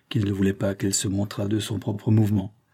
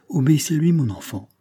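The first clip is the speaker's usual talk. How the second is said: lightly fatherly advice, raised then easing down; paternal; 6 semitones higher than usual. A narrator's reading. Agent advising the young woman to obey, paternally. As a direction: advise like a father, starting high and settling. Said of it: "prononça paternellement monsieur Fanferlot".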